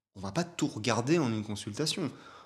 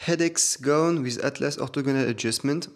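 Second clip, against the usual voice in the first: reading English with a French accent, louder; 3 semitones higher, 5 dB louder than usual. Real, not acted. Reading the video's English title to viewers, French-accented English. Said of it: "Moi, j'ai un super accent".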